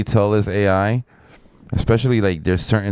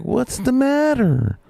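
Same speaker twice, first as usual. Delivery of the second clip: high, slow, drawn-out call; imitated worker calling back; slower than usual. Electrician answering the panicked crew, high drawn-out holler. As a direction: mimic him hollering back, stretched out.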